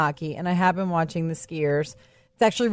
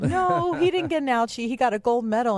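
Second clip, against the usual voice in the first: higher-pitched mock-reassuring mom voice; motherly correction; 4 semitones higher than usual. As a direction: gently set a small child straight, retold. Mother retells correcting young son.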